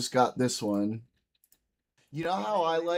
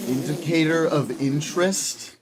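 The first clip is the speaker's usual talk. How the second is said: incredulous; 2 semitones higher, 4 dB louder than usual. Real, not acted. Incredulous echo.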